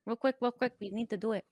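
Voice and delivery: conspiratorial Hispanic accent. Shown as a demonstration. Warning an amigo about sunscreen, Hispanic accent. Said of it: "Can you do a Hispanic one?".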